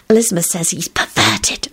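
restrained, scandalized delight; happy hiss. A narrator's reading. Solange telling Quentin a scandal, happily hissed. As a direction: confide it with relish. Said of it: "she hissed happily".

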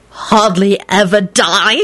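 slow choked, strangled disbelief. Acted. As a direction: force it out strangled. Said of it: "in a strangled voice".

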